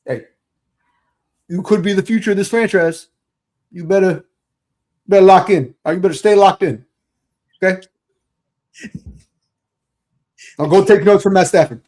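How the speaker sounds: lightly voiced gruff coach; a hint of a gruff coach calling a player over; Hey Weirdo bit. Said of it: "the Hey Weirdo".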